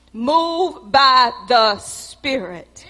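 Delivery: "Move by the Spirit" dragged out slowly; slow echo. Shown as a demonstration. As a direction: stretch each word. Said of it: "You move by the Spirit".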